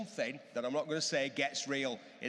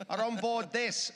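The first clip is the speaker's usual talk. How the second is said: put-on high, old newsreel stadium announcer; 1950s speedway announcer; 6 semitones higher than usual. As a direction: proclaim it like a vintage stadium PA. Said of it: "nineteen fifties, uh, Speedway announcer style".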